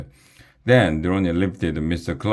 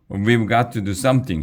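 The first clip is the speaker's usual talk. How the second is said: fast, higher, urgent call; urgent shout; 5 semitones higher, faster than usual. Acted. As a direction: urge the others to act now. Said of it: "shouted Emily".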